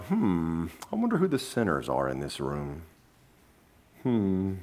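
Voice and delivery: low, hushed pondering; very soft, low, hammed-up suspicion; mock musing. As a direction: wonder aloud softly, pretending to search the room. Imitates smug church people musing.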